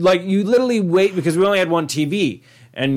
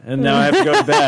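laughing while talking; 4 dB louder, faster than usual. Real, not acted. Laughing through retold line.

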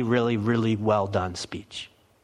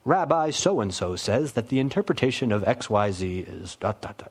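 mock scribe citing sources. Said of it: "like the scribes would have".

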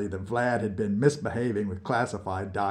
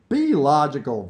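louder, pitched-up scolding; derisive; 4 semitones higher, 6 dB louder than usual. Acted. Vlad dismissing Nikita's refusal, derisive. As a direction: brush his objection aside with impatience. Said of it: "rolling his eyes in derision".

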